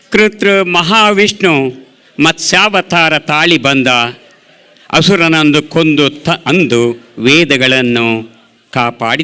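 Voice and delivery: measured poetic recitation with pauses; declaimed Kannada poem, phrase by phrase; poem recital. Acted. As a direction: recite it line by line as verse. Recites own new poem.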